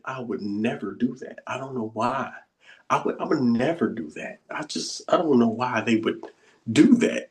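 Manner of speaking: soft, self-righteous "never do that"; quietly looking down on others; smug superior voice. Retold or imitated. Teacher mocking the spiritually superior ego, hushed and smug. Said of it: "That's how it sounds".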